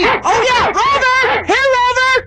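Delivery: high, excited dog-calling shout. Acted. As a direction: holler to lure the dog away. Shouts to lure the guard dog.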